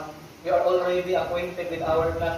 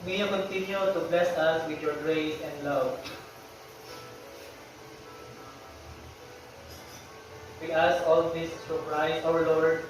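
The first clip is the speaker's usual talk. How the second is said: measured, even-toned classroom prayer; 3 semitones lower, 5 dB quieter than usual. Real, not acted. Teacher leading the class in opening prayer, solemn prayer delivery. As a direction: lead the prayer evenly, pausing between petitions.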